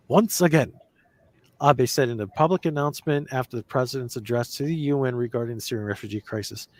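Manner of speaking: mock anchor reading a news story; deadpan fake news anchor. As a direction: read it like a TV news report.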